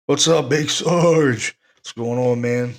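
loud, drawn-out call to a friend; hearty hello to a buddy arriving; calling out a greeting. Real, not acted. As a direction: greet him across the room, slow and loud. Greeting a newcomer.

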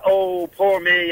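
slow, drawn-out mock whine; mocking self-pity. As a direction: drag it out like a sulky snowflake. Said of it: "these snowflake".

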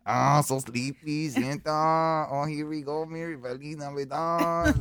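put-on sleepy Mexican accent Santa. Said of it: "don't act like you can't do a Mexican accent".

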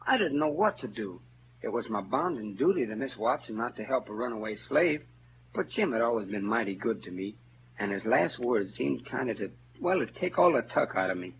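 hushed, torn confession; troubled and subdued. Acted. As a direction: speak low, weighed down by conscience. Huck troubled by conscience.

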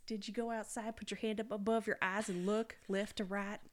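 put-on Southern twang, questioning; mock Southern officer giving useless advice; hammed-up Southern folksiness; Southern accent. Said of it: "why we're doing that accent".

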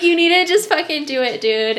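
fast, high, loud demand; insistent retold order. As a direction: rush out an exasperated command. Retold urgent order to sister.

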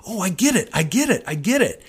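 imitating students catching on one by one; excited realization. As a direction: pop out each line like a new lightbulb. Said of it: "all over the classroom".

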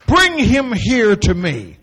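drawn-out and slow; a slow, gentle reading. Shown as a demonstration. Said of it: "He didn't say it like that".

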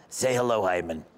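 lightly voiced elderly wife prompting her husband; a hint of Boca retiree; old Boca lady. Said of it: "everybody from Boca that's seventy and up".

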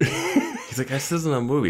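high, giggling through it; a giggle-laden mock line; laughing quote. Real, not acted. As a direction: laugh while you say it. Laughing while quoting.

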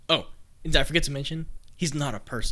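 quick, eager tease before the reveal; teasing build-up. Acted. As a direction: rush to spill the secret.

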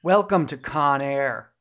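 slow, lightly voiced movie villain; a half-convincing actor impression, drawn out; Malkovich attempt. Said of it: "that's not Malkovich".

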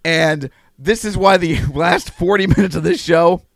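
slight lisp from bitten tongue; swollen tongue lisp. Real, not acted. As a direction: speak round a swollen tongue. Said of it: "that's why I sound like I have a lisp".

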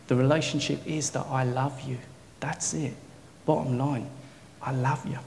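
low, patient explanation, softening at the end; patient, tender. Retold or imitated. God explains the relationship to John, patient and tender. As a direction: explain it gently and settle on the last words.

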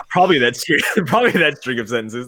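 words through laughter; laughing. Real, not acted. Host still laughing at co-host, laughing through words. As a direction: giggle through the answer.

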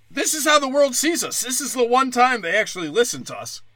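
high-pitched, pleading mockery; hammed-up high earnestness; mock eager apologizer. Mocks player's eager apology.

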